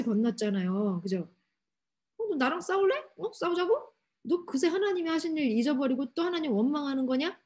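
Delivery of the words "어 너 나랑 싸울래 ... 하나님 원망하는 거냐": higher-pitched, acted-out indignant challenge; mock-angry comeback without shouting; angry Moses. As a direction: scold them with rising, incredulous questions. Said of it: "그러면서 이제 모세도 화를 냅니다".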